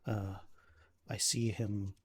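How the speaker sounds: halting, grave account in lightly acted formal speech; worried protective brother. Ismark reports his sister's stalker, mildly troubled manner. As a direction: pick through the words with understated unease.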